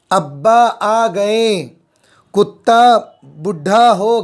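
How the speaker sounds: slow, even classroom read-aloud of each sentence; slow dictation reading. Shown as a demonstration. Teacher reading on-screen examples slowly to the class.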